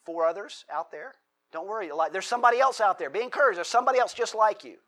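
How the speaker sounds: God rallying a beaten prophet; encouraging God. Retold or imitated. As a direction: voice lifted high and fast with encouragement. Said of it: "what does he say?".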